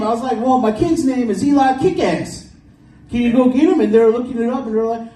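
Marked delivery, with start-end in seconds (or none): 0.4-3.8 his own voice pushed way up; high-pitched self impression. Comic retelling his school pickup, squeaky high self voice. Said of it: "It's like three octaves higher".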